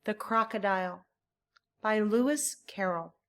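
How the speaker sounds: measured poem reading with an iambic lilt; clear, rhythmic poem reading; poem recital. Shown as a demonstration. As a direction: read it aloud for learners to copy. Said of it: "Listen and then try it yourself".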